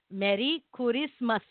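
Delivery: "Merry Christmas" said as "Medi Kurisumasu"; Japanese-accented English. Shown as a demonstration. Host shows how Japanese people say it, in a Japanese accent. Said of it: "in Japanese, Merry Christmas is".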